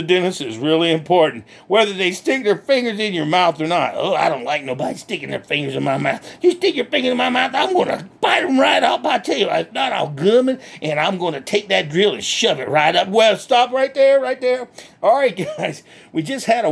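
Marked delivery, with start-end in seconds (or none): 4.0-13.1 lightly voiced country hick, cheerful and boastful; redneck Bubba. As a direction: play a proud backwoods redneck bragging. Bubba threatens.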